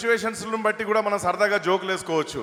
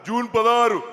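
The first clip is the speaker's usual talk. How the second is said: loud repeated answer in a politician's voice; mimicked politician, emphatic; V Hanumantha Rao; 2 semitones higher, 5 dB louder, slower than usual. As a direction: repeat it firmly as the elder politician. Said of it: "హనుమంతరావు గారి bit ఒకటి".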